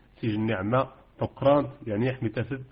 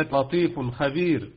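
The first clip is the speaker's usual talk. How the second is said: recited example; 2 semitones higher, slower than usual. Shown as a demonstration. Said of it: "أحسنتم".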